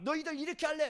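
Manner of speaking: loud, high mock scolding; scolding shout. Paul scolding his churches, loud high mock scolding. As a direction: yell at the kids like a stern elder. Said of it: "막".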